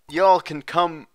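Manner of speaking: scolding southern country woman; sassy southern drawl; southern accent. Acted. Same southern voice.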